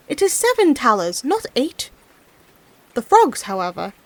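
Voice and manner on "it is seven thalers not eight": shouting. Acted. Peasant correcting the frogs across the water, mild shout. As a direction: drive home the number at the frogs. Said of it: "he shouted to them".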